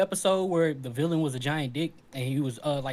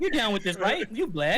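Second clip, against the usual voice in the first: high-pitched retold line; amused, high-voiced show quote; quoted cartoon line; 7 semitones higher than usual. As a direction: imitate the cartoon character, pitched up.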